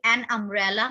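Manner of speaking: slow, careful example words. Shown as a demonstration. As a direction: read each example slowly. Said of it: "अब ये examples देखिए".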